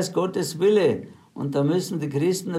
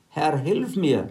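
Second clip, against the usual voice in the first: slow, measured plea from the text; slow scripture plea; slow read plea; slower than usual. Acted. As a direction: read the cry for help slowly and evenly. Woman's plea, read slowly.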